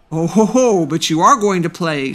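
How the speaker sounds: mildly menacing, mocking big boy; lightly voiced bully, a touch angry. A narrator's reading. Big boy overruling Tarcisius's refusal to play, mildly angry. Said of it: "who was angry because Tarcisius refused".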